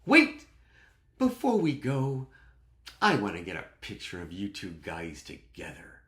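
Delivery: mock shriek easing into a request; excited wife calling out. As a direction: imitate an eager wife halting everyone. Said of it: "then Missus Jones goes".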